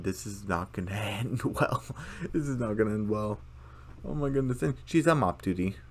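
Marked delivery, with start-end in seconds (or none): 0.0-1.8 chuckling through the line; laughing. Retold or imitated. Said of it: "this look from Gloria saying". 2.3-3.4 lightly voiced ominous warning; a hint of a different voice; Gloria voice. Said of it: "this look from Gloria saying".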